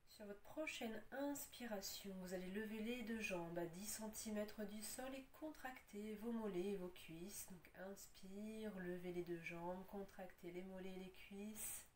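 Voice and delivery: measured breath cues, firmer on each contraction, easing on release; guided yoga instruction. Acted. Yoga teacher cues students to inhale, tense and release, guided yoga instruction. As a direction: build through each tensing, then let it drop.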